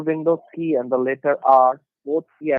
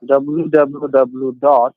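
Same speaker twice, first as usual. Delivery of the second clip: slow and louder, letter by letter; dictating; 6 dB louder, much slower than usual. Real, not acted. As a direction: repeat it loudly so they catch it. Repeating the address after pause.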